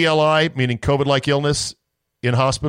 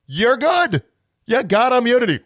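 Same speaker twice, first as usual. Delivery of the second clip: exasperated disbelief; 9 semitones higher than usual. Retold or imitated. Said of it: "I'm like".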